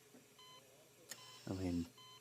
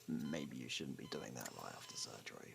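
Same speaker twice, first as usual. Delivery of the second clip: soft teasing whisper, much quieter; 8 semitones lower, 8 dB quieter than usual. Acted. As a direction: lean in and whisper it close. Teasing concern after patient laughs.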